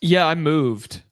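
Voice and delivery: echoing room. Real, not acted. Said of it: "It sounds really echoey in here".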